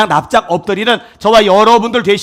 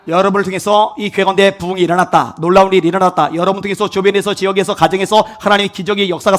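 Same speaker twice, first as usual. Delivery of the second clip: normal talking voice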